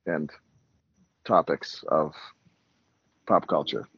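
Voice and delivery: pilot PA announcement; calm captain over the intercom; airline captain. Acted. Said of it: "introduce yourself".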